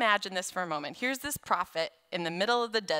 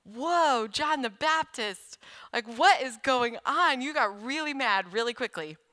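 louder, higher mock astonishment; amazed reaction; 4 semitones higher, 4 dB louder than usual. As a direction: gasp at John's sudden anger, half joking. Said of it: "and I was like".

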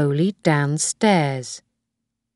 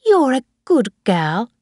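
higher-pitched, kindly grandmother; 6 semitones higher, 3 dB louder than usual. A narrator's reading. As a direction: praise her kindly, pitched up. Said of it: "Missus Harvey began kindly".

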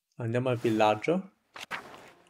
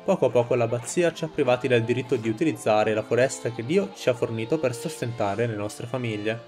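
steady orator addressing a crowd; rousing speech. Acted. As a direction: speak to the villagers like a rebel leader. Reads a rebel's speech to villagers.

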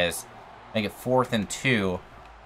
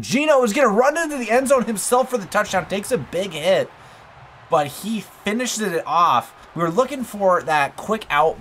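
big rising touchdown call, high and loud, then slowing; excited play-by-play; 10 semitones higher, 4 dB louder than usual. Real, not acted. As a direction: call the touchdown like a hyped announcer. Touchdown run, live call.

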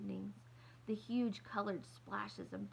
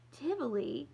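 surprised; 6 semitones higher, 6 dB louder than usual. Acted. Laughing disbelief at wrong city.

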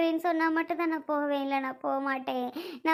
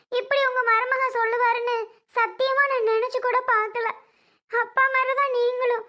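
tearful, slightly raised pleading voice; upset, weeping appeal; crying plea; 2 semitones higher than usual. Acted. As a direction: plead through tears as to a father. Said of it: "ஏன் அழுதுட்டு இருக்க?".

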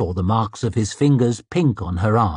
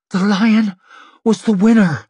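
fierce insistence; 9 semitones higher, 5 dB louder than usual. Acted. Seer grips him, insists.

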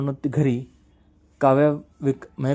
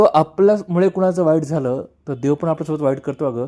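a mildly voiced anguished brother; understated grief, asking why; emotional lament; 2 semitones higher than usual. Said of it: "असं म्हणत तो emotional होतो".

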